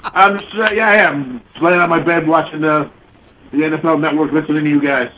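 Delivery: caller muffled under covers; muffled, distant voice; muffled phone line. Real, not acted. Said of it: "You sound like you're under the covers".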